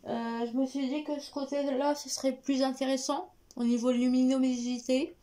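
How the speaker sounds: slight lisp from a new retainer. Real, not acted. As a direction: talk with a lisp around the appliance. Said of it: "vous m'excuserez si je zozote". (zozotement léger à cause de l'appareil)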